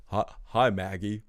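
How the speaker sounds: awkwardly affable greeting in character; a hint of a smug villain's accent; Negan. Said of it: "accent I'm giving Negan here".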